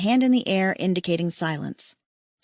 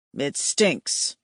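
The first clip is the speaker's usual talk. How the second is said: lightly voiced alien mate; 7 semitones lower than usual. A narrator's reading. Hayden complains of smell.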